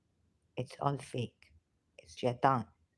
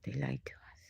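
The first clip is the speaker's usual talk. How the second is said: barely audible whisper; 2 semitones lower, 9 dB quieter than usual. Real, not acted. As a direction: drop to a bare whisper. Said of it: "Bluntly put now".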